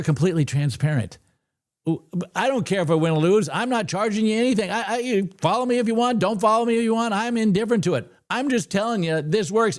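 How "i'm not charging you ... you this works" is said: higher pitched, insistent rant; worked-up rant. Real, not acted. Trader ranting at fake gurus, worked up and higher. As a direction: let it climb, you're fed up with the scammers. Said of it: "enough of my screaming".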